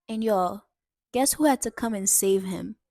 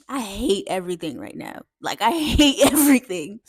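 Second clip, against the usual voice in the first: sulky mock grumble building louder; post-whooping attitude; 2 semitones lower, 3 dB louder than usual. Dad sulking after his whooping, full of attitude. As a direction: imitate a sulking kid, rising to a petulant outburst. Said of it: "what the attitude was like".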